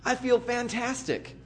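mock a comfortable believer, drawn out; smug contentment. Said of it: "we're living the Christian life and we're full".

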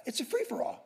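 breathy aside, barely voiced; a hushed, half-joking whisper. Real, not acted. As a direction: lean in and whisper it like a secret. Whispered aside about chaotic path.

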